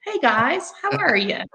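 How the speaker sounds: a breezy surfer-bro hello; mild surfer dude impression. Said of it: "He talks like a surfer dude".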